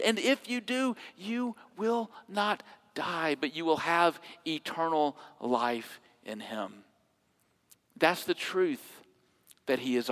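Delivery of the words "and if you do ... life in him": soft promise. Acted. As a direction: promise it gently. Soft promise closing quote.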